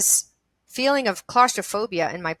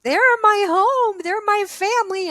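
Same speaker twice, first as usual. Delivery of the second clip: tearful; 12 semitones higher, 5 dB louder than usual. Retold or imitated. Melding with the beings in her vision, tearful. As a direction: re-enact an overwhelmed, tearful reunion.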